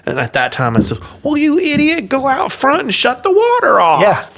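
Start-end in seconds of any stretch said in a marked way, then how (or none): 1.2-4.4 loud, high-pitched retold yell; angry order. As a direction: bawl instructions at a hopeless helper.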